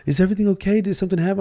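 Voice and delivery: high, worried voice of strangers; concerned bystanders. Retold or imitated. Father imitating onlookers worried by the crying child. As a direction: ask with mock alarm. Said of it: "people were looking like".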